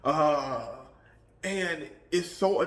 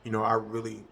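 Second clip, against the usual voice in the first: threatening tone; 5 semitones lower, 7 dB quieter than usual. Shown as a demonstration. Demonstrating a threatening tone to a careless coworker. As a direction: lower and much softer, menacing. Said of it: "that threatening, lowering your voice".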